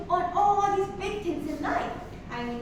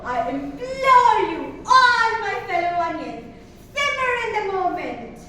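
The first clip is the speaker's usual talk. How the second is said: passionate plea; 7 dB louder than usual. Acted.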